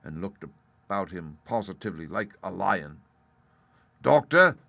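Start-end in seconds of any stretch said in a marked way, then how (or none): 4.0-4.6 pirate captain. A narrator's reading. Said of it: "in his usual tones".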